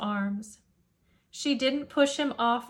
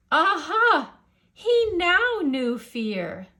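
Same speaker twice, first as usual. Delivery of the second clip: dramatic aha; 6 semitones higher, 6 dB louder, slower than usual. A narrator's reading. Narrator's dramatic turn.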